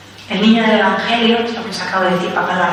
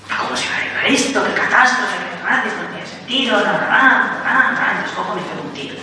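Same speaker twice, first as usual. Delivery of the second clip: mock despair. Acted despairing person without faith.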